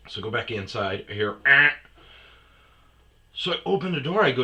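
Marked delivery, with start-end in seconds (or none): 1.5-1.7 short mock car honk; imitated horn beep. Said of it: "beep at me".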